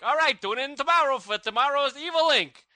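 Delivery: mock New York announcer sign-off; New York accent. Co-host imitating Brad's audio sign-off, put-on New York accent. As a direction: imitate a New Yorker signing off a recording. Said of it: "he was from New York".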